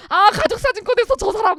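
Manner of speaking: high, loud acted exclamation; mock film-viewer outcry. Teacher playing a viewer spotting the doomed soldier, mock outcry. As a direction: cry out like a viewer spotting the cliché.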